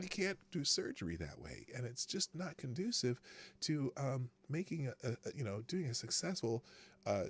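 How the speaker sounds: hushed, even, unhurried doctor voice; Ben Carson calm voice. Retold or imitated. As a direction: impersonate a soft-spoken surgeon who never raises his voice. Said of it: "I'm still talking like Ben Carson".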